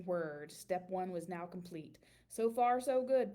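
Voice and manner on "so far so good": louder, satisfied so far so good; pleased thought. A narrator's reading. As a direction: cheer yourself on. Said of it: "thought Randy".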